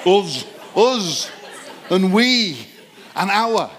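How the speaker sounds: Us, we and our pitched high with a laugh; us, we, our thrown up playfully; demonstrating stressed words. Shown as a demonstration. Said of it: "Did I say it like that?".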